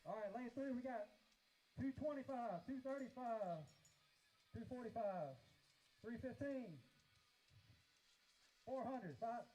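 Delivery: auctioneer. Acted. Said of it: "He sounded like an auctioneer".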